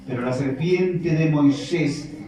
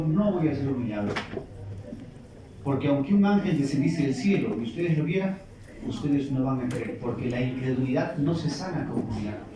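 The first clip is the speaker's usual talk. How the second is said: calm Jesus; 4 semitones lower, 5 dB quieter than usual. Acted. Jesus refusing the tempter, lower, soft and firm.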